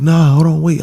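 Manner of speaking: mock-urgent friend; retold urgent stop. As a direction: cut him off fast. Friends stopping him, retold.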